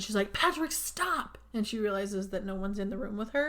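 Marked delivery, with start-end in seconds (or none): 0.3-1.4 high, slow cry of the name; retold yell. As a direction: call out to make him stop. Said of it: "she sits up and she yells".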